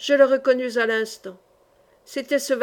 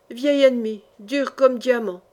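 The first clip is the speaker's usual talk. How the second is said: sudden cry; 3 dB louder than usual. Acted. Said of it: "s'écria tout à coup l'innocent".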